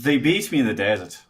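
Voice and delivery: Irish accent with a touch of drama; dramatic Irish accent. Shown as a demonstration. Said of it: "it has to be more dramatic".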